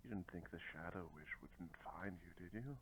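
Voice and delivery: low, soft taunting villain; quiet menace. Acted. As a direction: taunt your enemy softly and low. Player taunts enemy in character.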